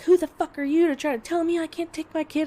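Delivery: high-pitched, indignant mock outburst; imitated angry yelling. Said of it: "we're yelling back and forth".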